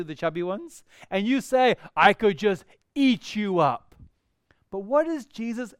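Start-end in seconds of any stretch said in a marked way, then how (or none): 2.0-3.9 put-on baby talk. Cooing at chubby babies.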